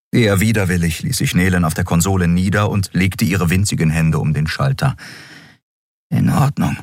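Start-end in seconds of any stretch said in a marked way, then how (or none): 6.1-6.8 higher, slightly choked-up reply; husky voice. A narrator's reading. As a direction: agree with a catch in the throat. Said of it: "sagte sie mit belegter Stimme". (hoch, mit belegter Stimme)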